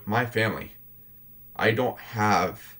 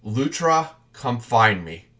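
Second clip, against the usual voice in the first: louder call, name pitched up; yelling out; 2 semitones higher, 4 dB louder, slower than usual. Acted. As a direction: call out across the battlefield to Lutra. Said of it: "I yell out".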